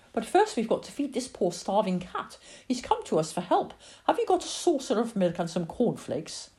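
put-on earnest child. Lily asks her mother to feed the starving cat, childishly earnest. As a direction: ask for help on a stray's behalf.

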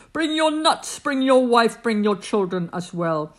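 hearty invitation. Acted. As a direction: wave them all in. Woodpecker inviting everyone.

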